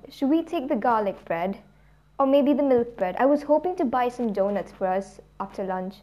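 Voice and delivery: lightly attempted British accent; fake British accent. Older sibling showing off at a bakery, in a fake British accent. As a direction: try on a British accent, not very well. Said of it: "I was trying a British accent".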